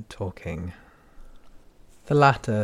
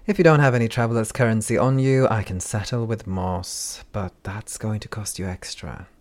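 gruff handler; 7 dB louder than usual. Acted. Handler speaks, impatient.

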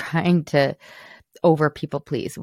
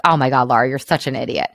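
mock self-scolding; 2 semitones lower, 4 dB louder, faster than usual. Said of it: "my knee jerk was to, like, beat myself up".

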